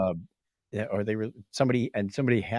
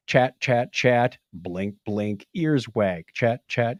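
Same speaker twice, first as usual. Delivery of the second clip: mechanical mimicry; slower than usual. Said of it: "It was like".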